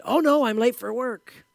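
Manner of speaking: lightly acted panic of a late riser; mock alarm. Clerical worker waking up late for work, mock alarm. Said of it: "a sleepy clerical worker said".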